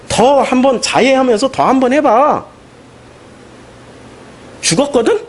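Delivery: mocking taunt. Elijah jeering at the Baal worshippers as they pray, mocking. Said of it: "이러고 막 놀리잖아요".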